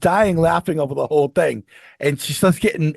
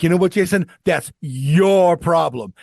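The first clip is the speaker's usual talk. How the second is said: lecturing father. Retold or imitated. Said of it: "he'd be like".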